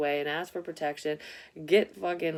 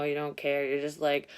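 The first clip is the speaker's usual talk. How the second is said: usual speaking voice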